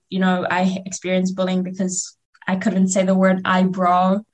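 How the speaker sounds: normal talking voice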